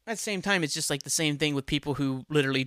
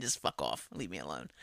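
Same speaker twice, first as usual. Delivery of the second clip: much lower, soft and dismissive; muttered brush-off; 12 semitones lower, 9 dB quieter than usual. Retold or imitated. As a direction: grumble it, wanting everyone gone. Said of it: "I just come in".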